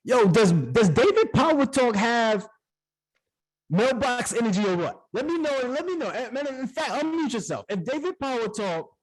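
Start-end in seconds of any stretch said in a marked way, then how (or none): 0.0-5.0 hype shout. Real, not acted. Host hyping up the call.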